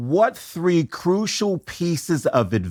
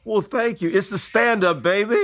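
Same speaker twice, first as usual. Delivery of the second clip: excited; 7 semitones higher, faster than usual. Real, not acted. Host pleased, playful boast.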